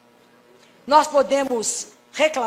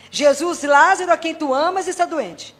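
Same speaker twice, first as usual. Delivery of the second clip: solemn prayer. Shown as a demonstration. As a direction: intone each word slowly. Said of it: "lembra de novo essa frase".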